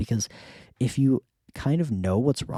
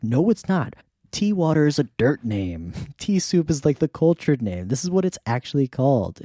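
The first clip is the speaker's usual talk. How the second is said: mock lecturing; 4 semitones higher than usual. Friends correcting Dirt.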